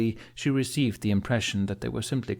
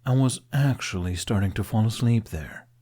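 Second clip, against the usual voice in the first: complaining. Acted. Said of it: "he complained".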